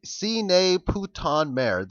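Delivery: "Sine putain merde" read out slowly, word by word in an amateur French accent. Shown as a demonstration.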